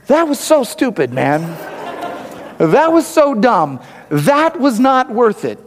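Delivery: high, strained, slow cry of pain; pained self-scolding. Retold or imitated. Husband after kicking the bucket, pained and high. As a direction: wince through it, scolding yourself. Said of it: "I was going".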